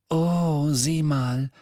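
happy exclamation. A narrator's reading. Luna watching the Ravenclaws crowd round, happy. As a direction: point it out with dreamy delight. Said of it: "flüsterte Luna nun glücklich".

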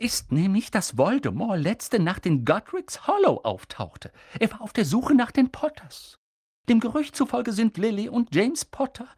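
stern witch pushing for answers; urgent McGonagall. A narrator's reading. McGonagall presses on.

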